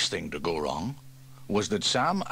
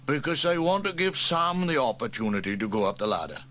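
higher, smug, smiling; sly grin; 5 semitones higher, 4 dB louder than usual. Acted. Trevor slyly hands the climb to Sam, smiling. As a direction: grin as you pass the job on. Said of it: "and then smiled".

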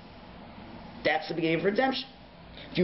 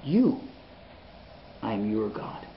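intimate voice of God; 5 semitones lower than usual. Retold or imitated. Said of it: "And Hashem says".

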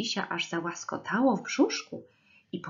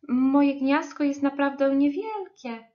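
higher-pitched little bird voice; lightly voiced bird, pitched up; 6 semitones higher, 4 dB louder than usual. A narrator's reading. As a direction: talk up high as a small bird. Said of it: "powiedział ptaszek".

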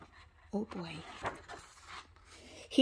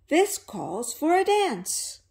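slow, louder festive duck; cheerful duck; 5 semitones higher, 4 dB louder, slower than usual. Acted. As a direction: announce the party. Duck proposes dancing.

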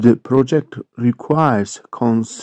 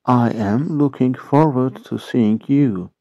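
slow model repeat. Shown as a demonstration. English teacher repeating the sentence for Turkish learners, slow model repeat. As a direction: spread out "I am looking forward to seeing you".

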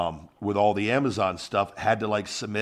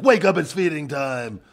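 hype shout; 7 semitones higher, 5 dB louder than usual. Pretend. Infomercial hype line.

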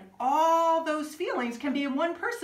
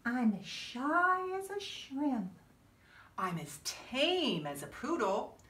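softer, timid; shy and soft; 7 dB quieter than usual. Acted. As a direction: shrink into a small shy voice. Reading shy, tame lines.

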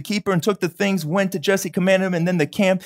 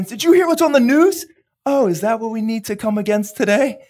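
mock worried churchgoer. Preacher mocking a news-chasing believer, fretful. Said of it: "It's not like".

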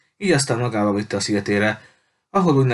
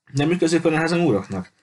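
bewildered question, pitched higher; puzzled; 7 semitones higher than usual. A narrator's reading. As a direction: ask in confusion, higher. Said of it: "kérdezte értetlenül Julia".

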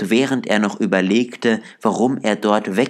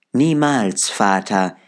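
calling out. A narrator's reading. Children answering their father Bob, calling out. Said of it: "riefen alle".

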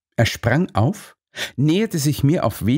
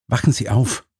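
gentle. A narrator's reading. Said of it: "sagte ich so sanft wie möglich".

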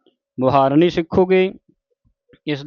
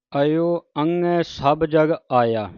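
slow recitation, resting after ਆਇਆ; pause after ਆਇਆ. Shown as a demonstration. Teacher showing the sangat where to rest, pause after ਆਇਆ. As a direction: draw the verse out and stop on ਆਇਆ. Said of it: "ਆਇਆ 'ਤੇ ਵਿਸਰਾਮ ਲਾਉਣਾ ਹੈ".

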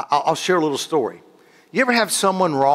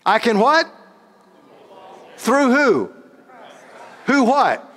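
call and response; 8 semitones higher, slower than usual. Acted. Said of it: "say this with me".

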